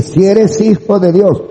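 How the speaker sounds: high, slow mock challenge; Satanás tentador. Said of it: "Cuando Satanás le dice". (Satanás desafiante, imitado en tono agudo)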